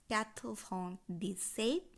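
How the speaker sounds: "quatre vingt dix-sept" slowly, in separate chunks; French pronunciation demo. Shown as a demonstration. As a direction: lift the end of "dix-sept" for learners. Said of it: "সাতানব্বই উচ্চারণ হবে".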